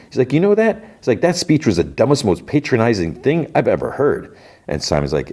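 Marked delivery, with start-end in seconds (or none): 0.3-4.4 high-pitched, heated retort; acted indignation. Young actor rejects older actor's patronizing speech, indignant. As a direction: tell him off, pitch raised. Acted quarrel, telling him off.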